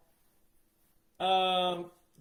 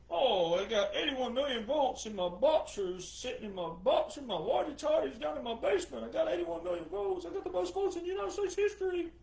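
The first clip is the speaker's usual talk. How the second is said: a hint of a rambling old man voice; mock Joe, lightly voiced and doddering; 4 semitones higher, 3 dB quieter than usual. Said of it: "old quote-unquote Joe, who".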